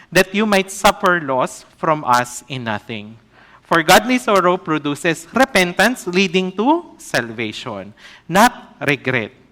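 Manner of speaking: scripture reading. Acted. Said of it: "babasahin ko po ito".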